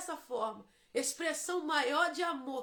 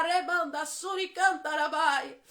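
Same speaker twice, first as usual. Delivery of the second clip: loud fervent tongues, drawn out; speaking in tongues; 2 semitones higher, 7 dB louder, slower than usual. Acted. Preacher breaking into tongues at the climax, loud and fervent. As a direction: let the syllables flow in ecstatic prayer.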